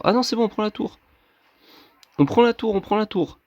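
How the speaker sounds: on prend la tour, shouted with joy; excited cheer. Real, not acted. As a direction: call it out, thrilled. Tower falling during match.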